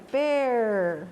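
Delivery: "Per" held on the R; R pointed out. Shown as a demonstration. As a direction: draw out the final R of "Per". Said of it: "Olha aqui o R".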